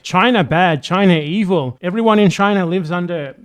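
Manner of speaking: hammed-up state propaganda chant. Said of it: "propaganda every single day saying".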